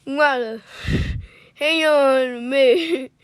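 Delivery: put-on halting try at a Cajun accent; Gambit. Co-reader takes a turn as Gambit, attempted Cajun accent. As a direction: have a go at a Cajun accent, word by word. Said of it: "You wanna try it?".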